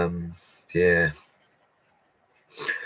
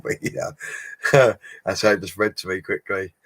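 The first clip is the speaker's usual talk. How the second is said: usual speaking voice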